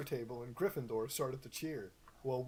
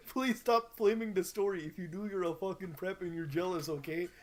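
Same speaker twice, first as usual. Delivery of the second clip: mock author rant; 5 semitones higher than usual. Reader ranting at flamers as the fic author. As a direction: scold the haters. Reading the author's angry note.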